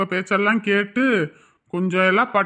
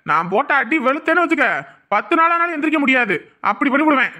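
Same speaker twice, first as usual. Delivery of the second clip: threatening; 4 semitones higher, 4 dB louder than usual. Acted. Husband threatens the man.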